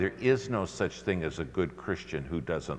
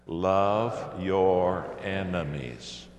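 slow, louder declaration; said really loud; much slower than usual. Shown as a demonstration. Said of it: "Say it really loud".

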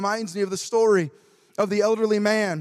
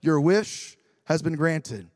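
genie; 6 semitones lower, slower than usual. Acted. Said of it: "and the genie said".

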